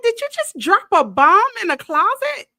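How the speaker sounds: high, loud alarmed shout; yelling at dad in alarm; alarmed question. Retold or imitated. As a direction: panic rising in the question. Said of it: "I was like".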